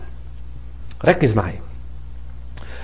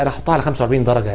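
quick, softer mock student mumble; student saying he writes the hamza at forty-five degrees; 5 semitones lower, 6 dB quieter, much faster than usual. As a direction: rattle it off like a careless student. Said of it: "ما في طلبة يقول لك ايه".

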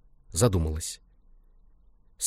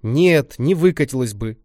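sobbing; 4 semitones higher, 5 dB louder than usual. Acted. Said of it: "всхлипывала я".

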